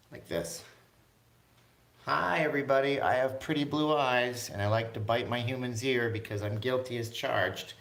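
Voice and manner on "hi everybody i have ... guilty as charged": cat's voice. Pretend. Owner voicing his cat greeting viewers. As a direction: speak for the cat, playful. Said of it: "So that's Princess Sage".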